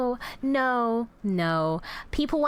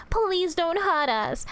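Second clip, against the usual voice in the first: mock pleading; 5 semitones higher, slower than usual. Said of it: "You should be like".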